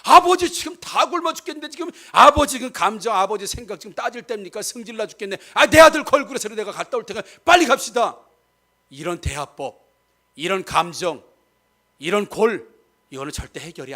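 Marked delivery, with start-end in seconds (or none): 0.0-8.2 impatient Reuben. Retold or imitated. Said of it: "르벤이 그런 식이에요".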